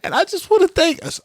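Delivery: high, strained praying voice; mock church prayer in falsetto; her pastor prayer. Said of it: "she's doing an impression of a pastor".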